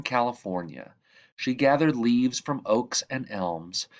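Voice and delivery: lively read-aloud, bright lifts at each new line; storytelling voice. Acted. Reading The Tree Lady aloud to children, storytelling voice. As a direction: tell it like a bedtime picture book. Reads picture book to children.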